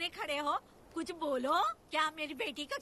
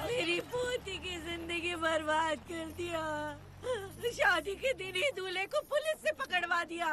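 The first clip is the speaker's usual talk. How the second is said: wailing outcry. Acted. Grandmother laments her granddaughter's ruined wedding, wailing. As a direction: wail it out, stretching the words. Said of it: "ऐसे क्यों चिल्ला रही हो".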